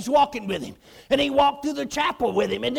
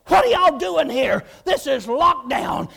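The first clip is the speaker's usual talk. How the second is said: loud, gruff demand, slowing on lockdown; retold angry captain shout; stern officer; 5 dB louder than usual. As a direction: bark it like a guard breaking up a gathering.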